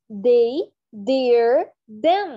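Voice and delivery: "they", "their", "them" each said with a firm d; clear demo words. Shown as a demonstration. Teacher demonstrating words for the class to repeat. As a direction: punch each word in turn. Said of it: "Check this".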